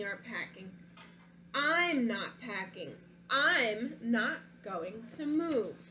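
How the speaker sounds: put-on storybook read-aloud, childlike narrator; reading to children. Teacher reading a picture book to her class, storytelling voice. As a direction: read it like a stubborn little boy.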